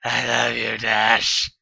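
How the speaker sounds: loud shouted confession; loud declaration. Acted. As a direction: shout the name at the end. Lovers crying out together.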